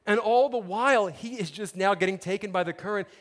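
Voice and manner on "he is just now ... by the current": usual speaking voice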